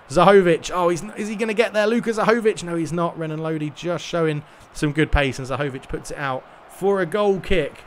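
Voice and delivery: lively football play-by-play call; match commentary. Acted. Streamer commentating his own eFootball match, lively play-by-play. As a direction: commentate the game live as it unfolds.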